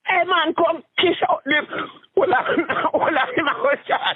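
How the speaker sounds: cracking up at his own joke; laughing high. Real, not acted.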